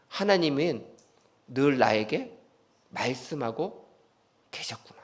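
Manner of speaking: fading to a hush; quiet awe as the truth dawns; hushed realization. Real, not acted. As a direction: let it sink in softly, almost to nothing. Sermon realization, fading softly.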